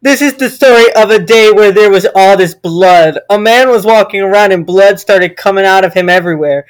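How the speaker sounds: mock-serious scary tale; story reading. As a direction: read an absurd gory story aloud. Reads creepypasta aloud.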